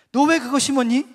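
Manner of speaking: loud, high, insistent questioning; stern question. Retold or imitated. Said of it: "정색을 하면서 물어봤습니다".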